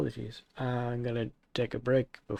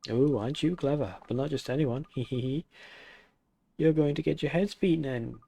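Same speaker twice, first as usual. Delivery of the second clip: taunting master voice; 3 semitones higher than usual. Acted. Taunting master character dialogue.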